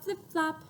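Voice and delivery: flip flop. Shown as a demonstration. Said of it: "repeat after me".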